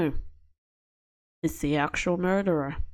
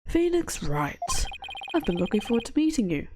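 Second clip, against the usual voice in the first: smug prosecutor voice; 4 semitones higher than usual. Acted. Voicing the rival prosecutor.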